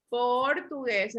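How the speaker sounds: "Portugués" slowly split por-tu-gués; syllable by syllable. Shown as a demonstration. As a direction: sound out "Portugués" in drawn-out syllables. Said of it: "lo separamos en sílaba".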